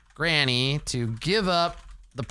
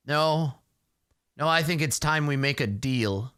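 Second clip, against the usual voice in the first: put-on scheming old Granny; 3 semitones lower than usual. Granny proposes a new deal.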